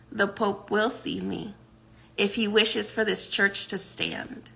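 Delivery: quiet, calm and certain; calm, smiling. Retold or imitated. Joshua calmly answering the angry guard, quiet and assured. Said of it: "Joshua very calmly smiles at him".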